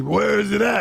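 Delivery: mock demanding shout; impatient fan voice. Imitating impatient fans.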